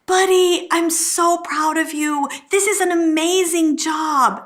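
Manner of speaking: proud praise. Retold or imitated. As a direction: gush over the boy like a proud mom. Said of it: "the most important woman in his life say".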